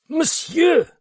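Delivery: very high, loud warning cry; policeman's cry. A narrator's reading. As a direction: cry out sharply at him. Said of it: "cried the policeman".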